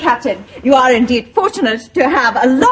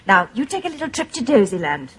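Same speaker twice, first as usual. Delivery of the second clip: soothing; faster than usual. Acted. Nurse soothing patient to sleep.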